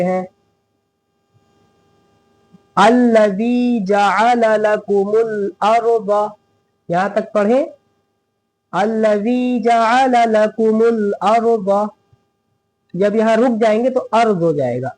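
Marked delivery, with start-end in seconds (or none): 2.8-6.3 slow, measured recitation with held long vowels; Quranic recitation. Shown as a demonstration. Teacher reciting the verse for students, slow and measured. 8.7-11.9 slow, measured recitation with held long vowels; Quranic recitation. Shown as a demonstration. Teacher reciting the verse for students, slow and measured.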